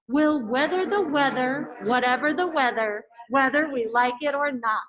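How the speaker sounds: crisp, over-articulated recital; tongue twister recital. Shown as a demonstration. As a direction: spit out every consonant cleanly. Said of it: "I'm gonna say one, two, three".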